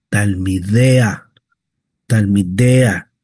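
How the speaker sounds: talmidea said slowly and low; teacher modelling talmidea slowly. Shown as a demonstration. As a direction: draw out talmidea. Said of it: "estamos en masculino plural".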